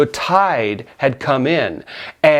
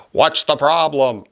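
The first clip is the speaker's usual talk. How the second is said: slow imitation of a megaphone call; megaphone official. Coast Guard man addressing hiker from below, mock megaphone call. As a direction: lightly imitate a megaphone announcement. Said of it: "gets on the megaphone and he says".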